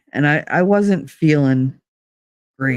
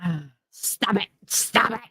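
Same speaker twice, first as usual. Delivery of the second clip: laughing at clip; 3 semitones higher, 8 dB quieter than usual. Real, not acted. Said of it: "make me laugh so".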